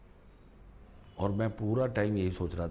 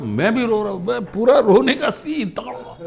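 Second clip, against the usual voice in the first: emotional retelling; 12 semitones higher, 12 dB louder than usual. Retold or imitated. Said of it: "बोला".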